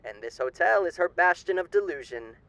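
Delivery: silky, theatrical old-time radio announcer playing a charming demon; sly radio host. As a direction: purr every line like a grinning showman hiding menace.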